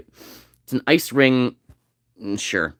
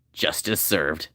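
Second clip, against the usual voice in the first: deadpan catchphrase; 8 semitones lower, 8 dB quieter, much slower than usual. Retold or imitated. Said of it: "He says".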